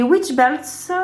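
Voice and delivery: slow, put-on English accent on "Witch Belts"; hammed-up English accent on "Witch Belts". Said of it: "tu as vu un peu mon accent anglais".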